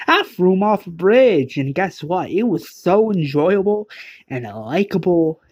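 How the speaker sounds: high, delighted boast of a killer; sing-song villain bragging; gloating villain. Acted. Villain gloats over murder.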